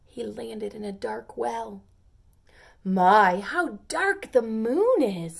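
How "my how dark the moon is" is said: puzzled pea. Acted. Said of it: "said the second pea".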